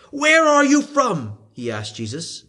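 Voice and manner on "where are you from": higher, slow probing question; Pilate questioning. A narrator's reading. Pilate questioning Jesus, higher and slow. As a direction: press him for an answer.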